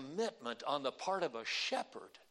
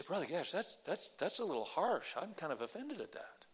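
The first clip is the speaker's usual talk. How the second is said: mock offended listener; 5 dB quieter than usual. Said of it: "You say".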